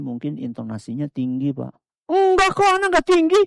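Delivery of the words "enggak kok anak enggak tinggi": higher, louder protest; husband denying he talks harshly, voice up high; high-pitched denial. Real, not acted. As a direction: blurt out the denial high and loud. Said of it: "Lah, itu tinggi".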